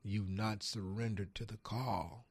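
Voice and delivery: slow, solemn pronouncement; lightly voiced God, slow and grave. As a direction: deliver it slowly like a divine verdict. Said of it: "He says".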